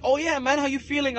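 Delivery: high, friendly voiced quote; imitating him. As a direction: play the cheerful guy. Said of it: "he's like".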